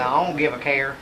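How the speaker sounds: country Oklahoma talk; Oklahoma accent. Shown as a demonstration. Actor showing how folks back home talk, Oklahoma accent. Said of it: "'Cause the way we talk is".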